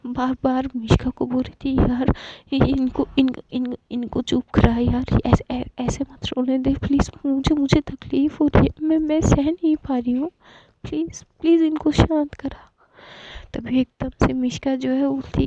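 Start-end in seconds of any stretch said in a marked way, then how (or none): 1.8-12.7 put-on higher, breaking pleas of a panicked girl; a friend begging her to stop someone's crying; distressed pleading. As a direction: beg frantically, words tumbling and stuttering.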